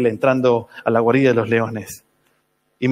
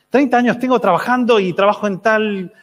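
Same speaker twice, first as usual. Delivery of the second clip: retahíla quejosa, más aguda; desahógate como el papá harto; queja imitada; 5 semitones higher than usual. Retold or imitated. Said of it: "se empieza a quejar". (lamento actuado)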